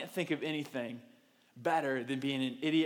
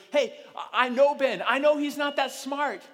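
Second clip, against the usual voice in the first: amused onlooker; 8 semitones higher, 6 dB louder than usual. Retold or imitated. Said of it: "everyone looks at it and goes".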